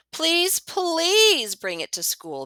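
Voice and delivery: put-on high, slow pleading child; begging. A narrator's reading. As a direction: beg sweetly like a child. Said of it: "begs Willa".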